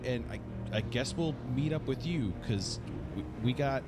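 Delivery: breathless, panicked radio report. Pretend. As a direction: talk fast through panicked breaths. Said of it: "a panicked breath that I'm having as I reply".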